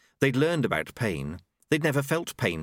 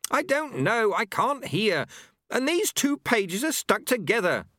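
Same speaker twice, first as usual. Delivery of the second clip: high-pitched fretful angel voice; flustered angel; 12 semitones higher than usual. A narrator's reading. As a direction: fuss in a high, harassed voice. Flustered angel struggling with book.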